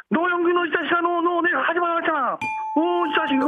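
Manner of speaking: put-on high, scolding old man yelling at his son-in-law; angry father-in-law. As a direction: berate him like an irate father-in-law. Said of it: "박영규 씨가 오지명 씨하고 다투는 장면".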